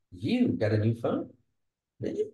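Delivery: unsure, questioning tone; doubtful. Shown as a demonstration. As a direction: friend doubting how she afforded the phone. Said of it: "questioning, unsure".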